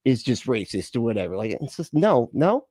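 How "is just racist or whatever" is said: pitched way up and loud, a sneering brush-off; hammed-up scornful voice waving critics away; mocking dismissive quote. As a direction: scoff at them like they're overreacting. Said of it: "And they're like".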